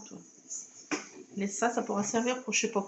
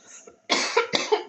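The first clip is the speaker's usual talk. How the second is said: loud choking cough; coughing fit; 11 semitones higher, 6 dB louder than usual. Real, not acted. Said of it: "Désolée, je m'étouffe".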